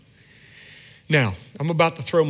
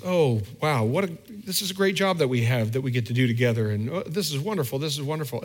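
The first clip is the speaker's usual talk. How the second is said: thankful delight. Retold or imitated. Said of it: "if your attitude were one of thankfulness".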